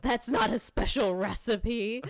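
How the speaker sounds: blurting it out mid-laugh; laughing quote. Retold or imitated. Dennis caught with closets of boxed mac, laughing.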